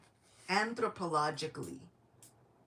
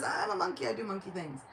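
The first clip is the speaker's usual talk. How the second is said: brisk monkey reply; 3 semitones higher than usual. Acted. Speaker resumes Hanuman's reply, quicker.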